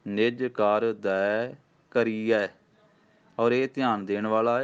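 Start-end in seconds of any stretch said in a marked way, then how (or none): 0.1-2.5 slow, careful chant of ਨਿਜ ਕਰ ਦੈ ਕਰੀਐ; measured gurbani recitation; slow recitation demo. Shown as a demonstration. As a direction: recite ਨਿਜ ਕਰ ਦੈ ਕਰੀਐ slowly, each word distinct. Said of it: "ਕਰ ਦਾ ਅਰਥ ਇੱਥੇ ਹੱਥ ਹੈ".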